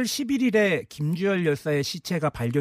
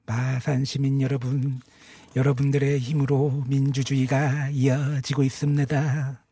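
Syngman Rhee impression. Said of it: "이승만 박사 성대모사로 마지막 인사해 주십시오".

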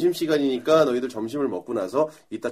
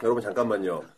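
lowered, softer voice of grave reason; mock-solemn appeal; 3 semitones lower, 4 dB quieter than usual. Teacher dodging a pizza promise to students, mock-solemn. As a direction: quietly reason with them, faux serious.

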